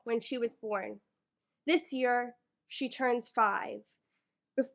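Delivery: measured poem recital, lightly performed; poetry reading. Acted. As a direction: read it like a slam poem to the room. Reads her poem aloud.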